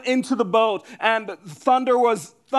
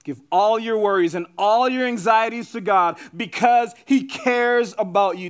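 raised, driving proclamation of the verse; emphatic preaching; 3 semitones higher than usual. Real, not acted. Preacher urges worried listeners to hand over anxieties, emphatically. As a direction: press it home with force on key words.

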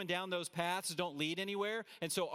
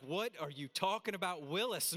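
mock-incredulous catchphrase, slightly raised pitch; eighties sitcom catchphrase; 3 semitones higher than usual. Preacher likening Paul to eighties nostalgia, playful catchphrase delivery. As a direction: toss it out like an old TV catchphrase. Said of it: "went back to my nineteen eighties nostalgia".

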